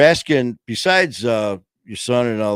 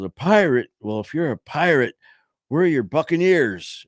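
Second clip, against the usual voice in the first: teasing neighbor; 6 semitones higher than usual. Retold or imitated. Man questioning the kid.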